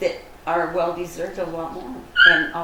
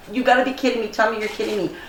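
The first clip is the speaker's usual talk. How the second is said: higher and louder, a retold shriek of disbelief; retold excited scream; 3 semitones higher, 3 dB louder, faster than usual. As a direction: relive the joyful shock of hearing the rings were found. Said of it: "And I just screamed".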